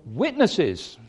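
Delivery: one forceful word, "Witnesses.", clipped at the end; emphatic. Retold or imitated. The people at the gate answering Boaz, emphatic. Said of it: "it's emphatic in the original".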